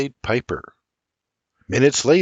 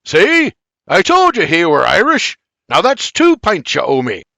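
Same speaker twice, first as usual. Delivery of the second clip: gloating; 7 semitones higher, 7 dB louder than usual. Acted. Gloating winner of a bet.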